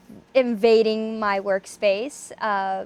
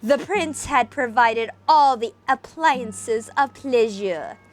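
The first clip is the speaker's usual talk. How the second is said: dramatic reading. A narrator's reading. Reading Poe aloud to viewers in isolation, dramatic narration. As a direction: read it like a gothic tale by candlelight. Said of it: "we shall commence with a dramatic reading".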